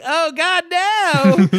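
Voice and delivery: high, droning mock distress; nasally monotone. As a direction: imitate a weird nasal whine, held on one note. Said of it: "same weird nasally monotone".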